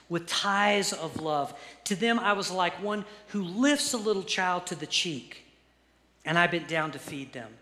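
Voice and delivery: deliberate, emphatic Bible reading; scripture reading. Acted. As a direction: proclaim the verse phrase by phrase. Reads God's words from Hosea.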